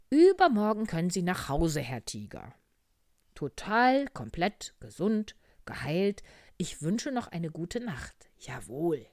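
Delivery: loud, high, jubilant discharge; doctor frog announcing. Acted. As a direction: proclaim the cure in punchy single words. (laute, schwungvolle Arztstimme)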